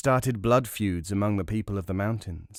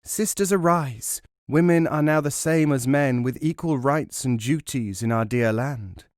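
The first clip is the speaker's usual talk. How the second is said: higher, louder proclamation; rousing call; 4 semitones higher, 3 dB louder than usual. Acted. Radio women call on sisters to rise, rousing proclamation.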